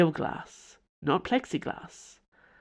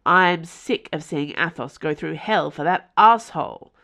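growled; 6 dB louder than usual. Acted. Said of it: "Porthos growled".

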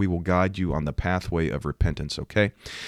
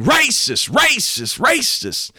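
much higher, louder chant of racist; mock yelling racist; 5 dB louder, much slower than usual. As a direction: yell it like a protester at the crowd. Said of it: "He's yelling".

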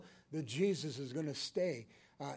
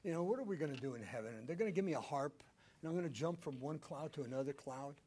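mock naive question; 3 semitones lower, 5 dB quieter, faster than usual. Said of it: "people tell me".

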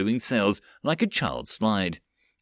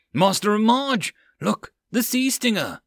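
shouting from crow's nest; 11 semitones higher than usual. Acted. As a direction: call down from the mast. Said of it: "The lookout from the crow's nest yelled out".

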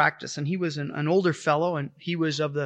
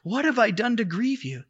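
retelling a sudden higher outburst, half-acted; a man startled into crying out to the Lord, higher pitched; blurted out; 6 semitones higher, slower than usual. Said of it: "he blurted out".

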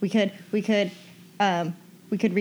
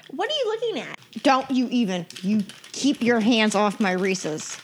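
loud sharp voice; 3 semitones higher, 4 dB louder than usual. Acted. Guarding her candy.

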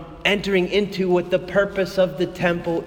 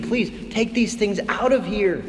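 gentle pleading, not angry; 2 semitones higher than usual. Retold or imitated. Jesus pleading with temple sellers, gentle and hurt. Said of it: "almost like he's pleading".

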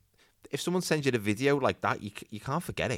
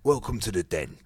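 Cockney. Acted. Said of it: "Oh, he's Cockney".

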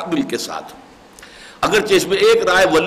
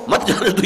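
higher, مت جانے دو as one unbroken group; raised pitch on مت جانے دو, no pause; مت joined to جانے دو; 4 semitones higher than usual. Shown as a demonstration. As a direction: run مت straight into جانے دو. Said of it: "یہ ہے اصل شے".

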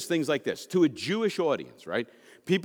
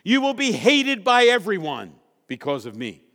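1 scripture read; 3 semitones higher, 6 dB louder than usual. Acted. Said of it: "Next one".

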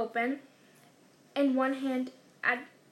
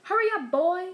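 raised, higher, louder call; shouted; 5 semitones higher, 8 dB louder than usual. A narrator's reading. Uncle calling boy from the kitchen, shouted. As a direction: call out loudly to hurry someone along. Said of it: "shouted Uncle Vernon".

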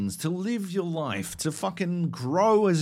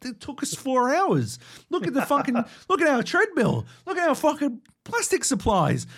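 hammed-up whiny plea, pitched higher; mock whining; 5 semitones higher than usual. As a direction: play the wounded kid begging to be heard. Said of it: "we're like".

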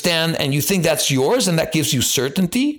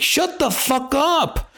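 much higher, slow mocking yell; mock outburst; 12 semitones higher, slower than usual. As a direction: ham it up as if mocking a panicky crowd. Mocking fearful people.

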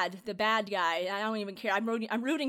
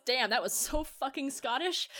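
amused, slower retold self-mockery; laughing at himself; 4 semitones higher, slower than usual. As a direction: imitate an actor cracking up at his own slip. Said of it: "laughs at himself and goes".

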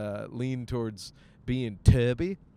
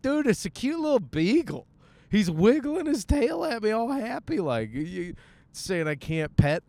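pleading excitement; 9 semitones higher than usual. Retold or imitated. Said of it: "I'm like".

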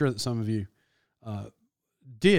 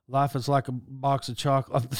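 low, soft, lightly voiced Forrest Gump; Forrest Gump quote; 3 semitones lower, 5 dB quieter than usual. Quoting Forrest Gump's line, a lightly voiced Forrest. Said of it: "like Forrest Gump, where he says".

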